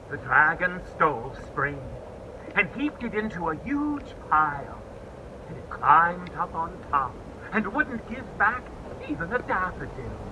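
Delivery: hushed narration. A narrator's reading. Narrator telling children winter came, fading to a hush. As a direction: let it grow quiet and dreary.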